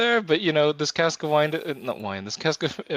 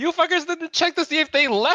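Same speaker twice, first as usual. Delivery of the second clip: very high-pitched shout; 13 semitones higher than usual. A player's character shouts down a chimney at those below; shouting down a chimney. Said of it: "I am shouting down this chimney".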